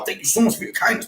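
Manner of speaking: high, sugary mock gratitude; sarcastic thanks. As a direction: gush thanks you clearly don't mean.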